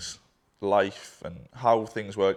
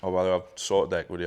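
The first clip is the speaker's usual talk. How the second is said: offhand, lower retold aside; nonchalant; 3 semitones lower, faster than usual. Partner mentioning the equity over a cigarette, nonchalant. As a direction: toss it off casually, a bit quick and low. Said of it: "like, just nonchalant".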